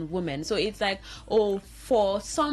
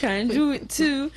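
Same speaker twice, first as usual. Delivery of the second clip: mock slogan laughing; 7 semitones higher, 5 dB louder than usual. Mocking women's claim.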